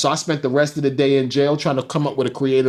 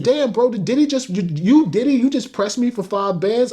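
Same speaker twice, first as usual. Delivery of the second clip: retold disbelief; 6 semitones higher than usual. Retold reaction to being pressed.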